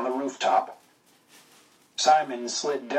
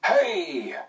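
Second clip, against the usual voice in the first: high mock yell while falling; hammed-up high cry of hay. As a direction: yelp it out on the way down, much higher. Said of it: "on the way down he yells".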